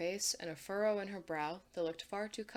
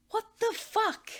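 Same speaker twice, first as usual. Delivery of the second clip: higher, louder, slow exasperated; exasperated repeat; 8 dB louder, slower than usual. Acted. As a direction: spell it out louder, fed up. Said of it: "Anne repeats".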